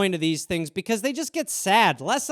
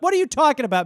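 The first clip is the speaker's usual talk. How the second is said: mock incredulous; 6 semitones higher, 4 dB louder, much faster than usual. Acted argument with own thoughts.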